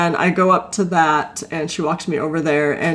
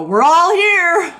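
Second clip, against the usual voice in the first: put-on high, slow little kid voice; sing-song it like a small boy; mimicking her son's chant; child's voice; 11 semitones higher, 4 dB louder, much slower than usual. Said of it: "I hear Owen go".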